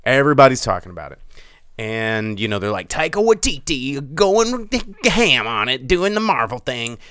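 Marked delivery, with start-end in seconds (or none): 2.9-7.0 imitating gushing fans, higher at first; mock fan hype. Mock fans hyping the director.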